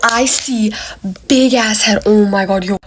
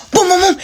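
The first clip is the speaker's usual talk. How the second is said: quick, higher "boom" knocks; imitated knocking; 7 semitones higher than usual. Storyteller imitating knocking on the bathroom door, punchy. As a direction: pound out the knocks with the voice. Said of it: "comes knocking on the door".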